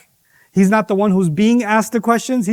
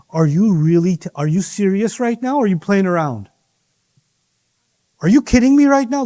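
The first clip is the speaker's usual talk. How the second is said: incredulous mock disbelief. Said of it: "They said".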